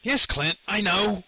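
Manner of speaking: high, exasperated yell. A narrator's reading. Lenny answering the voice in his head, high yell. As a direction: yell back, pitch climbing on the last words. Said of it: "Lenny yelled out".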